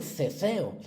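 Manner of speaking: ceceo with a th sound, "θeθeo"; lisped ceceo. Shown as a demonstration. Teacher demonstrating ceceo to pupils with a lisp. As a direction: say ceceo as "theh-theh-o", both S's lisped. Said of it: "la C en vez de la S".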